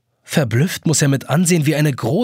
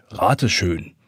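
whispered tease; 6 semitones lower than usual. A narrator's reading. Teasing the trapped boy.

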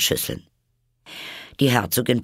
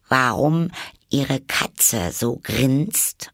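a bit anxious; 5 semitones higher, much slower than usual. A narrator's reading. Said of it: "fragte Alice etwas ängstlich".

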